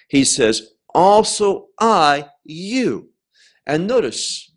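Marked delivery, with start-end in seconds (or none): 0.9-3.1 "also I, you" slow, with "you" set apart; stress on YOU. Shown as a demonstration. Preacher stressing "you" to the congregation. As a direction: lean on "you" after a pause. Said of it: "I put the emphasis because the Greek text does on the word you".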